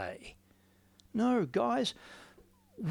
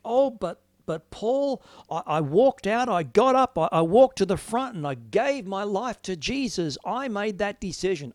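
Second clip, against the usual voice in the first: indignant objection; 4 semitones higher, 4 dB louder than usual. Acted. Imagined listener objecting to preacher.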